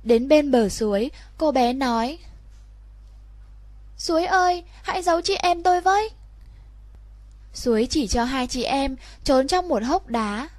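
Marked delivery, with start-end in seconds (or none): 4.0-6.1 put-on higher, quick urgent little girl; girl's hurried plea. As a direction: beg fast to be hidden. Girl begs the stream to hide them. (bé gái cầu xin gấp gáp, giọng cao)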